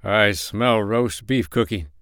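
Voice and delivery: slow, drawn-out dreamy words; understated drowsy sleep-talking; sleep-talk mumble. Acted. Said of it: "he mumbled".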